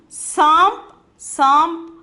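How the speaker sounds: "Samp" drawn out and rising, m before p; model word. Shown as a demonstration. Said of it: "we are putting here im".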